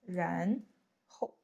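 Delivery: 然 and 后 split apart; syllable by syllable. Shown as a demonstration. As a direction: say 然 then 后 slowly. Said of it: "you need to use 然后".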